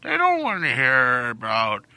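put-on slow dismissive old man. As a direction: scoff like a grandpa. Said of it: "Stop talking like an old man".

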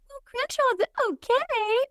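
grudging approval. Retold or imitated. Mocking how far politics moved, slow high grudging approval. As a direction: say it as if you can't believe yourself. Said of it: "I'm like".

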